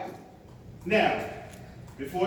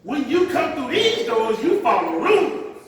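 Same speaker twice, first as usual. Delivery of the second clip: mock strict usher; 3 semitones higher, 5 dB louder than usual. Mock usher scolding worshippers about rules, loud. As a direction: lay down the church rules, hammed-up.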